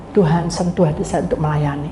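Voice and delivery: low, subdued sample prayer; right, humble prayer. Shown as a demonstration. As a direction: pray humbly for your own heart. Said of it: "Itu doanya".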